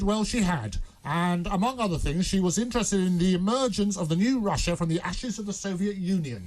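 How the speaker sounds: script read in a lightly acted informant voice. Reading his script to a colleague, lightly acted informant voice. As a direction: play the secret informant, barely changed. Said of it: "this is my script".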